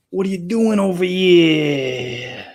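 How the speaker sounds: a hint of the Godfather, drawn out; Godfather impression. Game character asking the player what he's doing, lightly Godfather-voiced. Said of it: "The Godfather".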